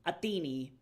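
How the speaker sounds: Athene, ending in an ee sound; Classical Attic pronunciation. Shown as a demonstration. Streamer repeats Athene for chat, Attic pronunciation. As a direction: say Athene as ah-THEE-nee. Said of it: "it would have been pronounced".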